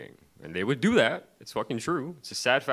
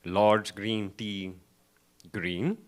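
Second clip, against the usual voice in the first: mock drive-thru worker; 4 dB louder, slower than usual. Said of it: "He said".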